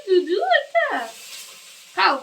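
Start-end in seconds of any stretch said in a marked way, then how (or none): 0.1-0.9 much higher playful voice; squeaky baby talk. Pretend. Mother squeaking playfully to feed her baby, high.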